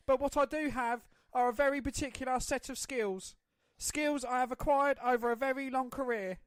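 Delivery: cold, deliberate threat; Liam Neeson impression. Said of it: "do the speech from Taken".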